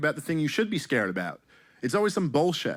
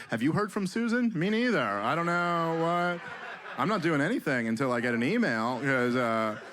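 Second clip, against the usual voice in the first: animals chatting. Pretend. Bear gossiping with a squirrel in the forest, lightly voiced. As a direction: play a woodland critter gossiping.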